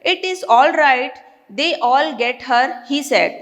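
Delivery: slow, measured English reading; deliberate, drawn-out read-aloud pace; story read-aloud. A narrator's reading. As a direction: read the passage aloud slowly, word by word. Reads story passage aloud.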